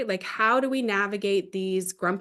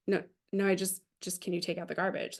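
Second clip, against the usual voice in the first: much softer, gently backing off; soft reassurance; 6 dB quieter, faster than usual. Retold or imitated. Dad reassures grumpy daughter he isn't accusing her, softly. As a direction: take the edge off, nothing accusing. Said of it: "he was really just trying to say".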